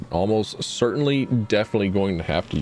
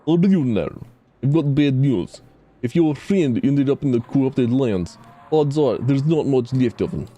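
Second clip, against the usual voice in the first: put-on Scottish accent; 4 semitones higher than usual. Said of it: "a bad Scottish".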